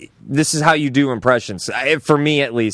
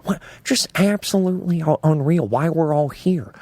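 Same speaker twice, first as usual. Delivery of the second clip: pursed lips, half whisper; Owen Wilson impression; 3 dB quieter than usual. Shown as a demonstration. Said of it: "I'm gonna try my best for you to do".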